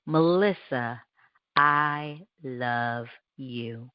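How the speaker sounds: drawn-out, lingering self-love; very slow tender affirmation. Shown as a demonstration. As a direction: let each word sink in, very slowly. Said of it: "Now say it again".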